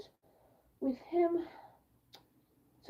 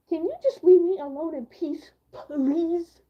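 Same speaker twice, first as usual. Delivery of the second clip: exasperated plea; 3 semitones higher, 6 dB louder, slower than usual. Retold or imitated. Pleading to be left alone.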